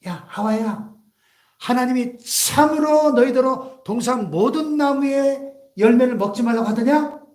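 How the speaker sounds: lightly voiced tempter, drawn-out questioning; the devil's leading question; devil tempting Eve. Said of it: "마귀가 처음 유혹할 때도 맨 먼저 어떻게 접근했죠".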